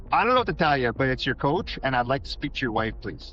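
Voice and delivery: firm, commanding coach. Retold or imitated. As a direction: say it with authority, no joking. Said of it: "A little more authority there".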